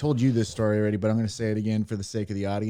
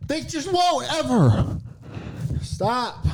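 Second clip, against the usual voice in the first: slow put-on voice; 13 semitones higher, much slower than usual. Bit about nobody listening.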